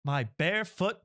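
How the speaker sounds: solemn mock-British narration; a light British audiobook voice; British accent. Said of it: "I'm putting on a British accent".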